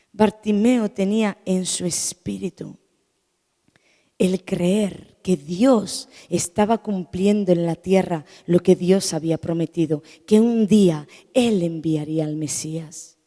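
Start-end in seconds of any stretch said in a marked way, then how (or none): none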